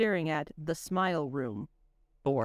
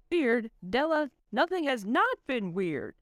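slow, higher, drawn-out exclamation; exclaimed; 5 semitones higher, slower than usual. Acted. Lamont to Della in the eerie room, slow and higher in disbelief. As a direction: stretch it out in disbelief. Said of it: "exclaimed Lamont".

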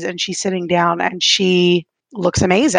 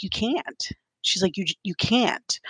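soft mother's voice; 8 dB quieter than usual. Retold or imitated. Mother's gentle refusal in dream.

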